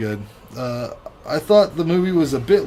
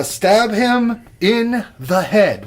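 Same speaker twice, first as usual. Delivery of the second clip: "stab him in the head" slow, high, each word weighted; "stab him in the head" as drawn-out, raised-pitch emphasis; emphatic advice; 8 semitones higher, 4 dB louder, much slower than usual. Real, not acted. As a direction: spell out "stab him in the head" slowly and forcefully.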